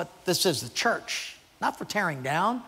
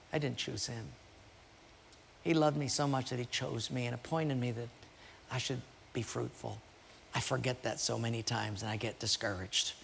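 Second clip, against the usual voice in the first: much softer, sincere, low words of thanks; tender and hushed; 4 semitones lower, 8 dB quieter than usual. Retold or imitated. Pastor encouraging Sally and her tearful grateful reply, hushed and tender. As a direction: speak it almost to yourself, moved.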